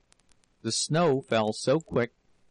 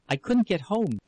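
raised, higher and urgent; breathless exclaim; 6 semitones higher than usual. A narrator's reading. Ona gasping out to Jurgis, breathless exclaim. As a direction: blurt it out, out of breath. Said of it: "she exclaimed".

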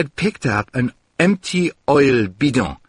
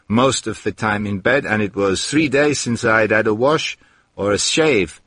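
ordinary delivery, nothing marked

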